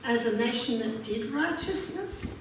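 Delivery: measured, solemn reading of the verse; scripture reading. Acted. Preacher reads Isaiah aloud to the congregation, solemn. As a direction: read the prophet's words to the congregation.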